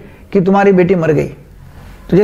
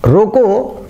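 रोको drawn out, then a break; comma after रोको; much slower than usual. Shown as a demonstration. Teacher explaining where the comma falls, pause after रोको. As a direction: stretch रोको and stop as at a comma. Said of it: "फिर comma है".

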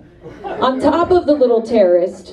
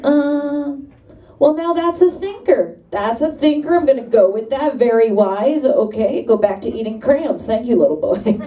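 mock impressed; 3 semitones higher than usual. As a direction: pretend to be deeply impressed. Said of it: "I was like".

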